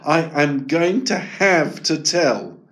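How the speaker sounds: slow, stress on have; firm resolve. Acted. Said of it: "Eric decided".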